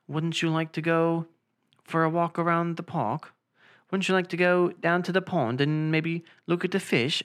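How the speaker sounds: lightly mimicked British accent; gentle put-on British accent. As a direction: politely invite in a British accent. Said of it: "stop with your British accent".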